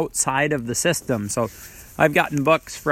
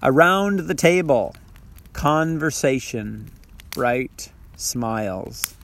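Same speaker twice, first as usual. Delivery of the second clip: poem reading. Shown as a demonstration. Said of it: "I'll read it again".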